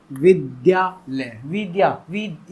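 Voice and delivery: विद्यालय read with a full द, slow; kids' wrong reading. Retold or imitated. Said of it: "क्या करने लगते हैं आजकल के बच्चे". (बच्चों की नकल, गलत उच्चारण)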